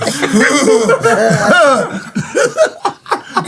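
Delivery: imitated delighted "ooh" breaking into laughter; mock gleeful hoot. Teasing a friend over his smile, mock gleeful hoot. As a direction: hoot like a tickled onlooker, then laugh. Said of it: "He was like".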